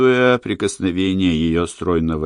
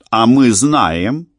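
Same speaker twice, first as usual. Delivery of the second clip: smiling; 2 semitones higher, 5 dB louder, slower than usual. A narrator's reading. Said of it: "улыбнулась Эмили".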